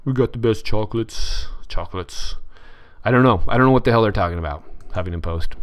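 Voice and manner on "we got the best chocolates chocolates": Trump impression. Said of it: "I don't do a very good Trump impression".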